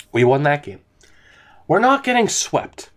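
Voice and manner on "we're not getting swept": emphatic relief. Real, not acted. Relieved emphatic repeat after win.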